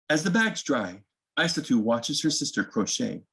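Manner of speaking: gentle storybook reading, unhurried; reading to children. A narrator's reading. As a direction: read it like bedtime story time for little ones. Reads picture book to children.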